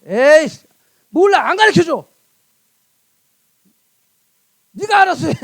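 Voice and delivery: loud, fed-up brush-off; hammed-up huffy refusal; mock exasperation. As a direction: act out throwing up your hands in annoyance. Acts fed-up person giving up.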